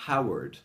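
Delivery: HOWARD begun with a light puff; breathed H. Shown as a demonstration. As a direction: exhale into HOWARD. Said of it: "That is the sound of the H".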